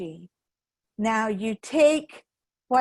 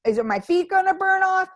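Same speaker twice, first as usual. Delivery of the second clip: nervous fire-walker; 4 semitones higher, 4 dB louder, faster than usual. Retold or imitated. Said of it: "stop and ask me".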